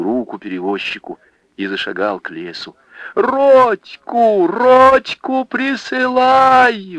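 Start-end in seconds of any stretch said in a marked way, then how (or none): 3.1-7.0 high, loud, drawn-out call; slow long shout after a departing man; desperate cry. Acted. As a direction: cry across the river in despair. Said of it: "в отчаянии закричала Анфиса".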